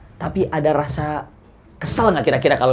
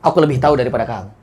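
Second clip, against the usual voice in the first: short and sharp; 4 semitones lower, faster than usual. Acted. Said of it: "Pendek, mantap, tajam".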